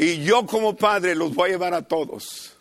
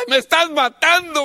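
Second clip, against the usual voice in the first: higher, louder mock yell of a kid; child yelling; 10 semitones higher, 7 dB louder than usual. Grandson hit with the belt cries out to his father, hammed-up yell. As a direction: howl like a spanked child.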